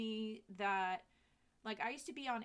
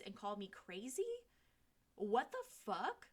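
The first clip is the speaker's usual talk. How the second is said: ego-triggered rant. Retold or imitated. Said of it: "That's what my ego was in at first".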